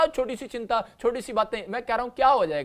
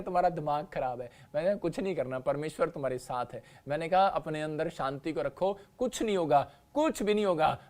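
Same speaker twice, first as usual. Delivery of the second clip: softer, lower soothing words; calm reassurance; 4 semitones lower, 3 dB quieter than usual. Retold or imitated. Husband calming his worried wife on the phone, soft and reassuring. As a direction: settle her down gently.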